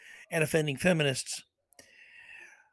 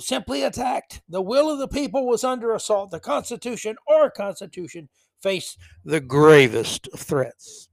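mock dramatic oratory; 3 semitones higher, 6 dB louder than usual. Host mocking Biden's January sixth speech with hammed-up, louder oratory.

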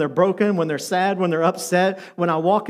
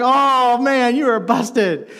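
teasing dread; 4 semitones higher, 3 dB louder, much slower than usual. Retold or imitated. Teammates react to clown being caught.

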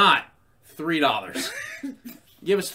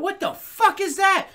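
high, loud, drawn-out disbelief; slow, raised-voice comic indignation; acted outrage; 5 dB louder, slower than usual. Reacting to town news on stage, acted outrage.

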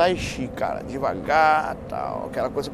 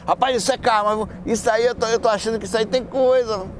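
suspicious voice; 7 semitones higher than usual. Pretend. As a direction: voice someone sensing something. Imagined person's reaction.

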